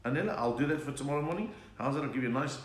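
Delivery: ordinary talk, nothing marked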